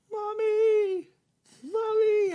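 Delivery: put-on high child's voice calling mommy; little boy calling. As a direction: call out like a small boy.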